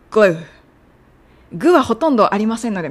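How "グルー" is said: グルー with the vowel stretched and no second vowel; glu- drawn out. Shown as a demonstration. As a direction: say グルー as one long syllable. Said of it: "グルと言わずに".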